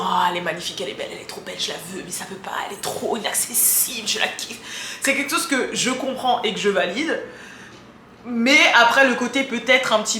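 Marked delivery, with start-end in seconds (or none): 0.1-4.6 breathless hushed admiration; dreamy whisper. Retold or imitated. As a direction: whisper it like a starstruck fan. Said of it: "le côté genre on admire".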